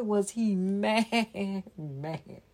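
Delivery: slow, chuckling through the words; laughing. Real, not acted. Reader laughing while telling of the mad bunny. Narrator laughing mid-line.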